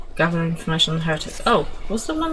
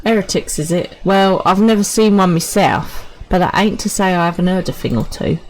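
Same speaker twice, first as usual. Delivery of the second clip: louder gruff common soldier; a soldier sizing up a lady, gruff and loud; rough soldier voice; 2 semitones higher, 6 dB louder than usual. Acted. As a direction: play a rough-spoken footsoldier.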